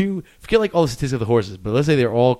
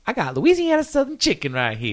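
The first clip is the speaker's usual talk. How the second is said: commercial pitchman voice; 10 semitones higher, 3 dB louder than usual. Retold or imitated. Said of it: "commercial was like".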